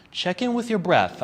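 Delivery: ordinary talk, nothing marked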